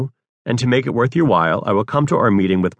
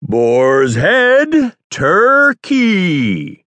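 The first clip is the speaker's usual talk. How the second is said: "Boar's head," a beat, then "turkey" much higher and louder; pause before turkey; 10 semitones higher, 5 dB louder, much slower than usual. Shown as a demonstration. Another take for the director, pausing before "turkey". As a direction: split it with a dramatic pause.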